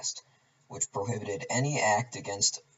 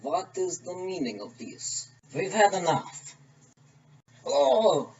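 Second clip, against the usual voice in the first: put-on Russian accent; 4 semitones higher than usual. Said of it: "along with me doing accents".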